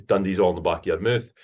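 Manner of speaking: Dundee accent from the back of the mouth. Shown as a demonstration. Showing off regional Scottish accents, Dundee demonstration. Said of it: "my chat that I had learned".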